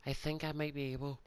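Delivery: talking through a yawn; words stretched by a yawn. Real, not acted. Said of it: "I have the yawns".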